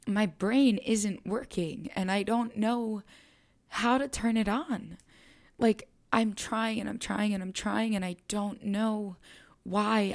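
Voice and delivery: rising to helpless panic on the phone to mom; panicked crying. Retold or imitated. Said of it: "I remember just crying and crying to her".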